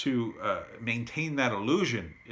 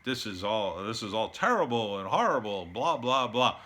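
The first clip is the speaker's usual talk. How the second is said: mocking whiny quote. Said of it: "Michael Moores in the world posturing".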